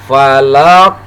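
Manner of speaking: FALAQ with the final q stopped, then bounced; bounced final qaf. Shown as a demonstration. Teacher modelling falaq for learners to repeat, bounced ending. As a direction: say falaq, stop the q and let it rebound. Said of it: "lalu dipantulkan".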